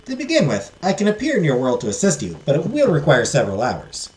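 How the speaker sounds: put-on fairy godmother explaining in a Southern accent; lilting Southern-accented fairy. Fairy warning the heiress it will not be easy, Southern accent. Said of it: "give her a southern accent".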